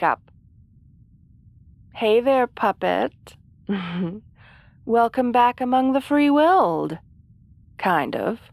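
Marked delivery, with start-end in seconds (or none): 1.9-7.0 gloating. Acted. Gloating after hypnosis.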